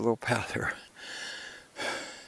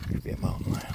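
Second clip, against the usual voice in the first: spooky whisper; 6 dB quieter, faster than usual. Pretend. Spooky mountain lion aside.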